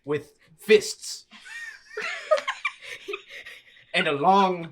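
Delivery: loud, high, through real laughter; laughing description. Real, not acted. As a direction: barely hold it together describing the beast. Bones describing kangaroo, laughing.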